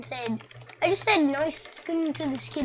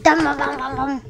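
gunfire noises; 7 dB louder than usual. Retold or imitated. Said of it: "then he was like".

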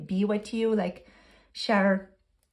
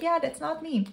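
doubtful viewer; 7 semitones higher than usual. Retold or imitated. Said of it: "If you're like".

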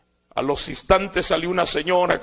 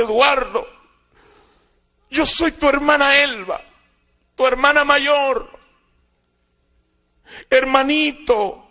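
tearful plea; 7 semitones higher, 3 dB louder than usual. Retold or imitated. Sister finds her lost brother in the street, tearful and pleading. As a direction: voice her pleading through tears, slowing on "hermanito". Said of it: "Y comenzó a llorar".

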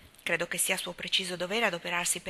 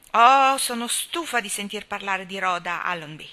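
louder, fed-up outburst; exasperated wife; 9 dB louder than usual. A narrator's reading. Anna to Gilbert, fed up and louder. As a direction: blurt out that you are sick of it.

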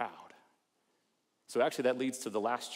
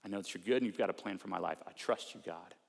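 humble prayer. Shown as a demonstration. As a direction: pray it gently, letting go. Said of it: "someone that prays humbly".

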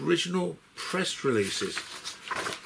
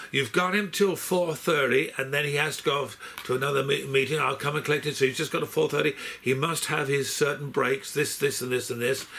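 put-on a half-hearted American accent, barely there; a Brit attempting an American agent's accent and not quite managing it; a light, unconvincing American accent; failed American accent; 3 semitones higher than usual. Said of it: "I can't do an American accent".

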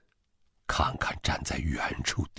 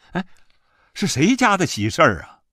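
higher, louder villager's inquiry; calling out a question; 10 semitones higher, 7 dB louder, faster than usual. A narrator's reading. Villager asks the father-in-law about the wedding, calling out. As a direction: call out with curiosity, pitched up.

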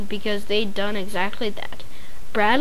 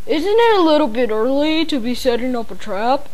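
gasping. A narrator's reading. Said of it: "he gasped".

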